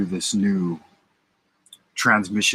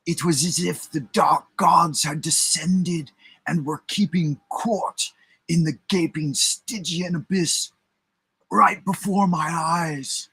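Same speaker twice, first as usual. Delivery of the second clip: eerie witness voice; 8 semitones higher than usual. Acted. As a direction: recount it as if still shaken.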